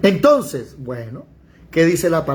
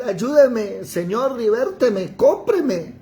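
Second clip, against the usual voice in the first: crying out for help; 5 semitones higher, slower than usual. Retold or imitated. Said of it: "gritar y decir".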